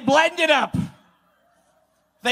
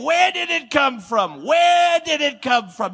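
mock bafflement; 4 semitones higher, slower than usual. Mocking officials puzzled over the cocaine.

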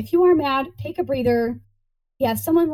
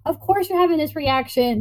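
sweet little heart. Pretend. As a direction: coo to yourself like to a small child. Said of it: "tell your sweet little heart".

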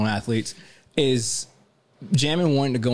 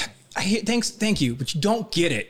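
lightly voiced whiny kid, a bit higher; mock whiny kid; 8 semitones higher than usual. Host mimics the son brushing off his dad, lightly whiny. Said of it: "'Cause you know, he's sitting there like".

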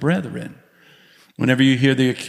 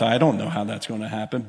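chuckling under breath; 4 dB quieter than usual. Retold or imitated. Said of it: "I'm kinda chuckling under my breath".

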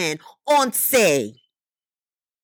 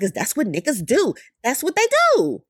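Tupac. Retold or imitated. Quoting an interview, mock exclamation at the end. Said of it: "the Tupac, uh, interview when he was like".

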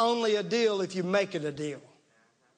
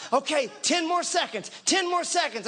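lightly voiced workout trainer counting down; a touch of gym-trainer urgency; urging trainer; 4 semitones higher than usual. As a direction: push them through the last seconds, a little higher. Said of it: "listening to a trainer just working out".

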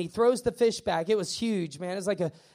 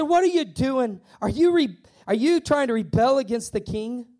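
mock contemptuous scoffing; 3 semitones higher, 4 dB louder than usual. Opponents scoffing at the plan to rebuild, mock contempt. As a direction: throw the questions out in imitated scorn. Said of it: "they scoffed contemptuously".

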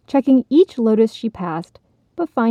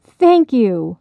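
a louder, happy little croak of thanks; 3 semitones higher, 6 dB louder than usual. Acted. Frog happily thanking the helpful fish, louder. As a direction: burst out grateful. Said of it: "the frog croaked happily".

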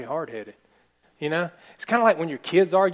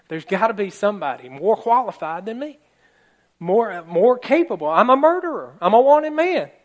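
pleading that climbs higher and louder to a near shout; desperate pleading; 5 semitones higher, 7 dB louder than usual. Retold or imitated. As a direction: beg your way up to a cry, I'm a wanted man. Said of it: "He's pleading".

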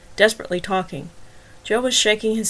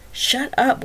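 snapped; 5 semitones higher than usual. Acted. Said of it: "Wagner snapped".

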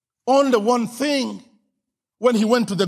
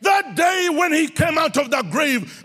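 preaching shout; 6 semitones higher than usual. Real, not acted. Refrain building.

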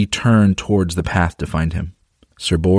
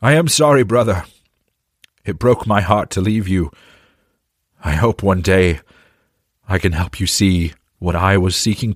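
tearful shout. Acted. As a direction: call out through tears, then soften. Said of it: "shouted as tears filled his eyes".

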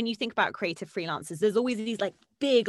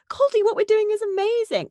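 higher, louder, beaming with pride; excited gushing; 12 semitones higher, 6 dB louder than usual. Retold or imitated. Coach quoting her proud client, higher and louder. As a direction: gush it out like an overjoyed teacher.

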